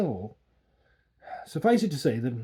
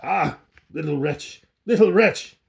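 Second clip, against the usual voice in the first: bleating Coppelius; 2 semitones higher, 6 dB louder than usual. A narrator's reading. Coppelius taunting the boy, bleating. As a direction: bleat it at the child, mocking. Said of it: "bleated out".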